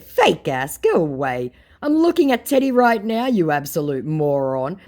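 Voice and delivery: loud, scornful brush-off; dismissive retort. Retold or imitated. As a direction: send the scammer packing.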